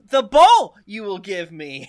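loud, slow Yoda impression. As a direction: drag it out like Yoda. Yoda-style inverted line.

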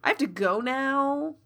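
flustered, halting excuse with pauses; awkward recovery. Acted. Jiro excuses himself after the accidental kiss, awkward. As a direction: stall with ums while making an exit. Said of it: "he sort of recovers and is like".

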